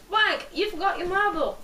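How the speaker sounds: high, loud British call; Charlie McDonald. Acted. Boy calls after girl with her phone, in a British accent. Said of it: "said in a smooth British accent".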